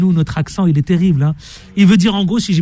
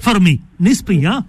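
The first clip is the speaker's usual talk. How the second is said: mock Arafat accent; slower than usual. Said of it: "j'ai un accent Arafat".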